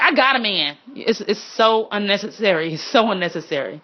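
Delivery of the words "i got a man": curt, snappy rejection; mock-rude brush-off with a sharp fall; needlessly rude. Shown as a demonstration. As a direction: shut them down rudely. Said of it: "You don't have to be like".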